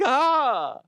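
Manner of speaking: high, loud cartoonish squeal; mock excited tourist. Acting shark-selfie tourist, high voice.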